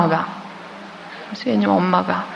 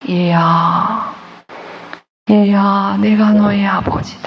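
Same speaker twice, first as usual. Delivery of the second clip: voice of God; much slower than usual. Acted. Voice of God speaking.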